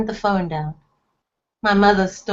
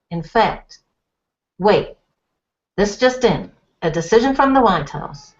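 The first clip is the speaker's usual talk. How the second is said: a lightly voiced anchorman reading the bulletin; mild anchorman tone breaking in on TV; news bulletin. A narrator's reading. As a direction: read it like the six o'clock news, lightly.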